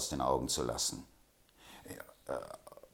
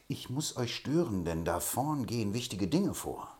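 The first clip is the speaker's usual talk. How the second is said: pompous, slightly raised announcement; self-important tone; 6 semitones higher than usual. A narrator's reading. Poller interrupting the men with self-important news. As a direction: puff up as if bringing big news. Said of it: "sagte im wichtigen Ton".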